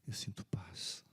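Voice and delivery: slow, barely voiced whisper; faint dying whisper. Pastor voicing the dying man at his bedside, slow whisper. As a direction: breathe the words out like a dying man finding peace. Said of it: "Ele queria rir, mas não conseguia".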